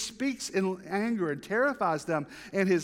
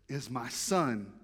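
voice of God; 7 semitones lower, 4 dB quieter, slower than usual. Acted. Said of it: "what did God say".

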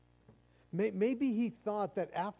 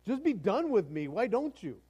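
louder, higher fed-up cry to God; exasperated plea; 5 semitones higher, 5 dB louder than usual. Retold or imitated. Overwhelmed believer crying out to God, loud and exasperated. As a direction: throw up your hands at God. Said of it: "it's like".

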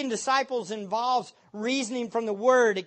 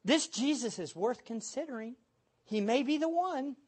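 softer, hesitant imitation; mock a lukewarm preacher; mock timid pitch; 2 semitones higher, 5 dB quieter than usual. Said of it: "how about this one".

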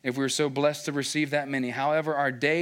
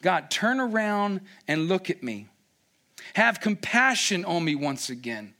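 Moses crying out; 4 semitones higher than usual. Retold or imitated. Moses praying for his people, pleading. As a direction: beg God for compassion. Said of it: "Moses is crying out".

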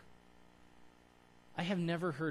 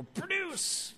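mock command.

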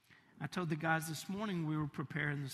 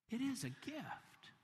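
tender preaching; 4 dB quieter than usual. Acted. Preacher softly urging the congregation, tender. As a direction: lean in and speak gently.

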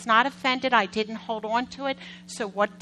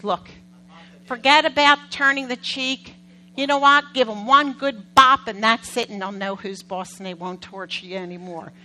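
father's advice; 6 dB louder than usual. Retold or imitated. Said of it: "their father says".

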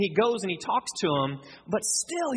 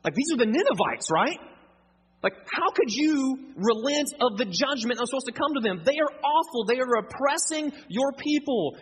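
higher-pitched, mildly outraged protest to God; acted indignation; 3 semitones higher than usual. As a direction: plead Jonah's case with mock indignation. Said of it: "welling up in Jonah's heart".

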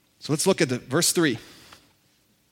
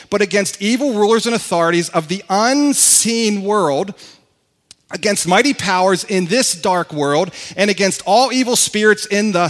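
louder, emphatic scripture; rising fervour in reading; scripture reading, building; 3 semitones higher, 5 dB louder than usual. Acted.

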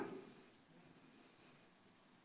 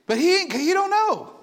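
higher, louder, laughing through it; 10 semitones higher, 6 dB louder than usual. Real, not acted. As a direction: chuckle while saying it. Laughing at his own reply.

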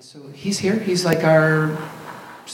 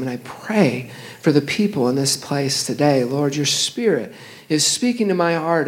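steady pastoral prayer voice; 2 semitones higher than usual. Acted. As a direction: pray over the people, earnest and even. Pastor leads congregation in prayer.

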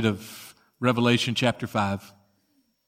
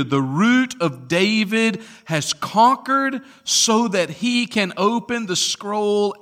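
higher, declaring pulpit voice; impassioned scripture reading; 6 semitones higher, 4 dB louder, slower than usual. Real, not acted. Elder announcing the Lion has conquered, impassioned proclamation. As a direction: declare it as a triumph.

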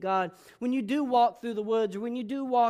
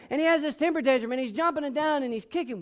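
ordinary talk

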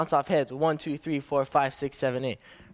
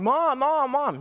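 mock child yell; 9 semitones higher, slower than usual. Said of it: "she's yelling".

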